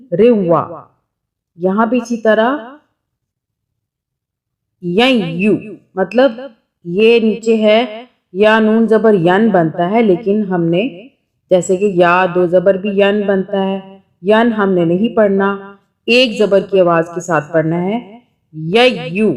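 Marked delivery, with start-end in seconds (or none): 0.1-0.6 روا with a faint nasal hum joining into وا; روا, nun barely heard, nasalised; light nasal nun. Shown as a demonstration. Teacher repeats correct روا with light ghunna. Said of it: "ہلکی سی نون کی sound آئے گی". 18.7-19.3 ی یو with a faint nasal hum joining into یو; ی یو, not ین, with a slight nasal glide; light nasal ghunna. Shown as a demonstration. Teacher reads ی یو with light nun ghunna. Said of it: "ہلکی سی نون غنہ کی sound آ جائے گی".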